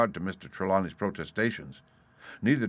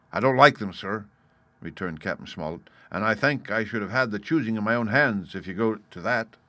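louder, emphatic sea captain; lightly voiced captain laying down his objections; blunt captain, airing grievances; 5 dB louder than usual. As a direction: state it firmly, punching key words.

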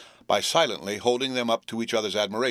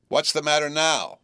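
sister snapping a sharp question; sharp demand; 6 semitones higher, 4 dB louder than usual. A narrator's reading. Sister demands an answer at the tea table, sharp. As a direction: bark it at the boy. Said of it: "said she, smartly".

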